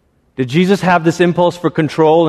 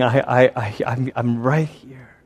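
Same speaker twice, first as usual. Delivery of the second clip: gentle Jesus; 3 semitones lower, 6 dB quieter than usual. Retold or imitated. Jesus answering anger gently.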